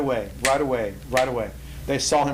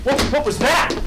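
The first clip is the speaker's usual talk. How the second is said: much higher and louder, stammering in disbelief; startled king; 10 semitones higher, 4 dB louder than usual. Acted. Nebuchadnezzar hears singing from the furnace, startled high outburst. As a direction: blurt it out like a king who can't believe his ears.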